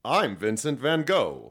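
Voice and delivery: slow, light imitation of a guest; Vincent Van Gogh impression. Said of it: "impression of you there".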